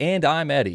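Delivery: charming, lifted tone. Showing another speaker how to introduce himself: with a little charisma. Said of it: "you say it with a little charisma".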